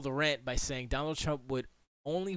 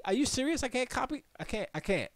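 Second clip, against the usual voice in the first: ordinary talk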